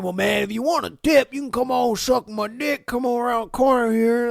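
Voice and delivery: slurred, rambling drunk mimicry; drunk guy. Imitating a drunk diner propositioning a Waffle House cook, slurred. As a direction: slur it like a pushy drunk customer. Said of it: "the drunk guy who said".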